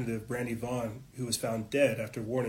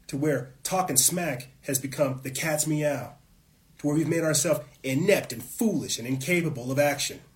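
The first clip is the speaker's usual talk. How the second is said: fired up; 2 semitones higher, 4 dB louder than usual. Real, not acted. To his viewers, ranting about a brainwashed nation, fired up and loud. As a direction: let the passion boil over. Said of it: "I'm sorry I get fired up".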